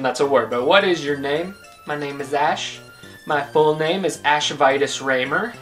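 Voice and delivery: normal talking voice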